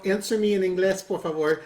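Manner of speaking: lightly put-on bad Spanglish accent. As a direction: plead in a clumsy put-on accent. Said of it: "I did it with a really bad accent".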